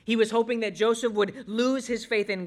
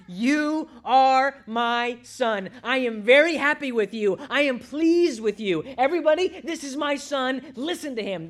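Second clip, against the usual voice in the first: emphatic, raised-voice fatherly proclamation; proud Father's declaration; 7 semitones higher, 6 dB louder than usual. Acted. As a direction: announce your son proudly to everyone. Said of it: "the Father had declared to his Son".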